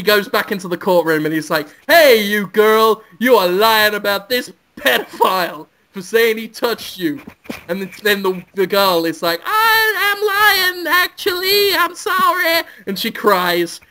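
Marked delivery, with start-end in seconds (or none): 1.9-7.2 mock courtroom accusation. Lawyer accusing the girl in court. 9.4-12.6 put-on much higher, slow little girl confessing. Girl witness admits lying in court, high and meek.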